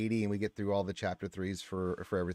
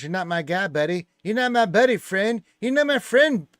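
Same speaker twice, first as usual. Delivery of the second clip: builds higher and louder with each line; mock angry rant; 9 semitones higher, 9 dB louder than usual. Streamer reading a chat meme as a growing mock rant. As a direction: ramp up the fake outrage line by line.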